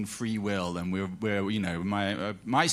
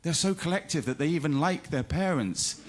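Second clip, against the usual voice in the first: laughing mock wonder; 3 semitones higher than usual. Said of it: "I thought".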